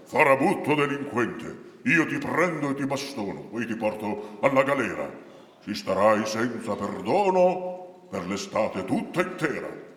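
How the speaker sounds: lightly voiced threatening guard; stern guard, angry. Guard threatens Patrizio with prison, mildly hammed-up anger.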